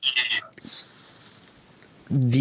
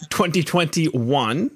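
slow punchline; 2 semitones higher, much slower than usual. Acted. Joke punchline drawn out slow.

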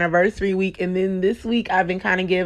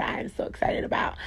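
whisper; 6 dB quieter than usual. Real, not acted. Excited host drops to whisper.

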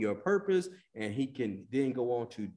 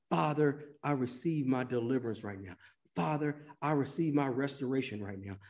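leading a prayer. Acted. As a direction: pray it line by line, gently. Leads prayer.

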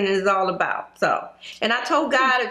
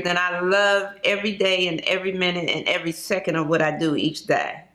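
slowed down with passion; 4 semitones lower than usual. Real, not acted. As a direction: let each word land with feeling. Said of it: "you slowed it down".

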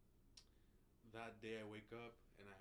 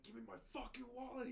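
mock yell; 11 semitones higher than usual. Friend yelling outside for his wallet, mock yell. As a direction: shout it like you want it back.

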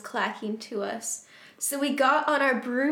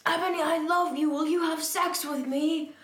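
higher-pitched pleading question, words separated; acted love plea; 5 semitones higher than usual. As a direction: read the lovesick plea more clearly. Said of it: "asked Snaketail".

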